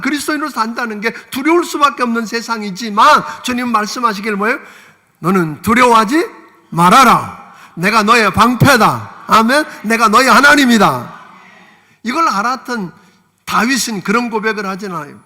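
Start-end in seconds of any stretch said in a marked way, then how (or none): 5.2-11.2 loud, slow proclamation of God's words; booming voice of God. Acted. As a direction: proclaim it with full force. Preacher voices God's words loudly. (하나님의 음성으로 크게 선포하듯)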